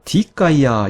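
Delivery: 디카이아 accented on 디, like the masculine; stress on first syllable. Shown as a demonstration. Teacher showing the expected feminine reading, 디카이아 stressed on 디. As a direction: put the weight on 디 in 디카이아. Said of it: "이렇게 읽어야 될 텐데".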